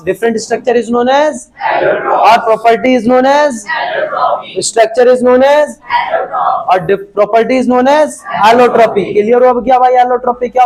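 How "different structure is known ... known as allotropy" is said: very slow, word by word, as if for notes; slow dictation. Shown as a demonstration. Teacher dictates a definition to students, very slowly. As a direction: spell it out slowly so students can write it down.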